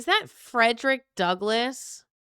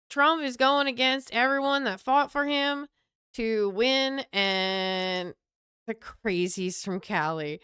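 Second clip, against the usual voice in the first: put-on Southern accent. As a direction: stretch the words like a mock Southerner. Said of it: "why I'm doing this accent".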